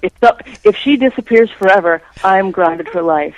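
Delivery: put-on a panicked kid, pleading.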